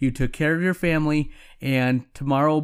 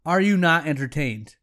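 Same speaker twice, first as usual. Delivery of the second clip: lightly booming defiant gladiator; a hint of an arena champion roaring. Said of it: "My Gladiator voice".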